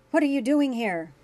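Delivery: loud, high hostile demand. A narrator's reading. Grant confronting Julian outside his door, loud hostile demand. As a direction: confront the intruder.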